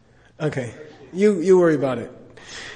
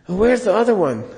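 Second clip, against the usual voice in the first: higher, searching question; curious Lama; 5 semitones higher than usual. Retold or imitated. Lama asking the priest for the other room, curious. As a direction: look around puzzled. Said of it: "he's like".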